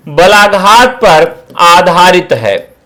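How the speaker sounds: slow, weighted बलाघात; slow answer. Shown as a demonstration. Teacher repeating key answer for notes, slowly. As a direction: drive home बलाघात पर आधारित है. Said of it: "किस पर आधारित है?".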